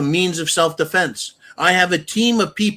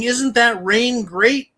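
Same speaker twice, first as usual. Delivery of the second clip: mocking lying politicians; 2 semitones higher than usual. Politicians lying to voters, mock soothing voice. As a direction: sneer out the politicians' fake comfort. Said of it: "pissing down our backs and saying".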